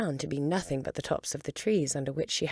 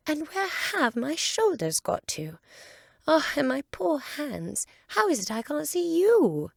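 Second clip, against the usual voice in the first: put-on much higher, louder, worried girl's voice; calling out in alarm for her lost hands; a high, anxious cry; alarmed Alice; 11 semitones higher, 4 dB louder than usual.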